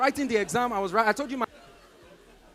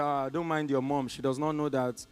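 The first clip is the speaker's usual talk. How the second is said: dry father; 7 semitones lower, 7 dB quieter than usual. Retold or imitated. Father joking about mother.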